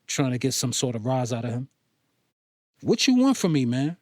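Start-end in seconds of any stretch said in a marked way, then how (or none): 2.8-4.0 heavy bass voice. Acted. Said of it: "with heavy bass in his voice".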